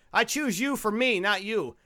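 slow, hammed-up cartoon Irish accent; mock a bad movie Irish accent, drawn out slowly; a lightly done, slow Simpsons-style Irish brogue; horrible Simpsons Irish accent. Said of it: "this horrible Simpsons Irish accent".

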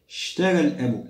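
"اشترى الأب" begun straight on the sh, opening hamza silent; hamza elided. Shown as a demonstration. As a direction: drop the first vowel of "اشترى", start on a hissed sh. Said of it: "لا نقول اشترى".

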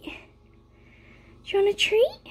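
stretched, sing-song treat question; drawn-out doggy talk. Real, not acted. Owner drags out the treat question to dogs, sing-song. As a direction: tease the dogs by dragging it out.

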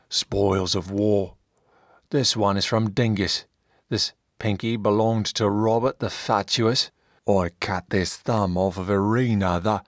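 unbothered warrior showing off trophies; lightly voiced brute, matter-of-fact; Slug, boastful rebel fighter. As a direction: play a proud, callous former slave. Slug boasts of his finger trophies.

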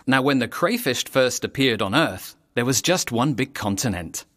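put-on rhyming storyteller's read to young listeners; story narration. A narrator's reading. Narrator reading a rhyming crayfish tale, storytelling voice. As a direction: tell the rhyme like a children's tale.

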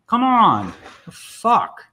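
loud, high cry of frustration; high, falling exasperated yell; exasperated protest. Real, not acted. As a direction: protest loudly at the stalled game. Software stalls, he protests.

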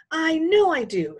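high, loud, drawn-out insistence; cried out. A narrator's reading. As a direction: wail it stubbornly, stretching the words. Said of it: "Sheila cried".

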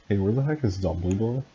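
a touch of irritated demand; understated annoyed question; mildly angry. Acted. Draco asking where Dumbledore is, mildly angry. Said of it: "Draco asked angrily".

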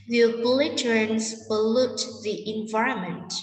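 slow question stressing "bullet", "trains", "pollute" and "environment"; sentence stress. Shown as a demonstration. Teacher reading a question for students, stressed "bullet", "trains", "pollute", "environment". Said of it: "Chúng ta sẽ đọc trọng âm như sau".

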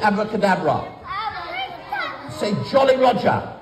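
put-on lively children's entertainer patter; bright magic show host; kids party magician.

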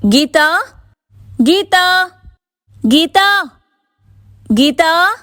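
very high, repeated calls; anxious shouting. A narrator's reading. Frightened Sirisha searching the streets for Geeta, anxious shouting. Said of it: "అని అరుస్తూ".

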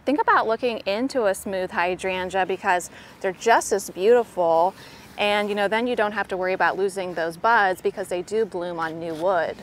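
usual speaking voice

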